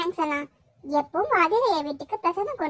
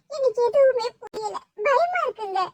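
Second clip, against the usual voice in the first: tearful fear; 4 semitones higher than usual. Acted. Mother fears for missing son.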